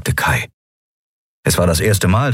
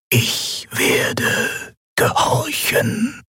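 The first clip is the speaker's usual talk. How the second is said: higher, slow, stuttering machine voice that keeps glitching; failing machine voice; much slower than usual. Acted. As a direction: stammer like a broken machine. (stotternde, defekte Maschinenstimme)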